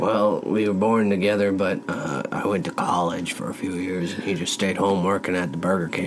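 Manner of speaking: hushed, low confiding talk; quiet gossip about his brother; whisper. Real, not acted. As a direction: keep it down, lean in close. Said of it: "What are you whispering about?".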